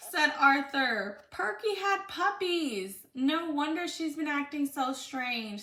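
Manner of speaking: put-on reading a picture book aloud to a child; lively read-aloud for a little one; storybook reading.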